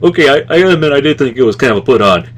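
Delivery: Rod Serling impression. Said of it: "that was his actual accent".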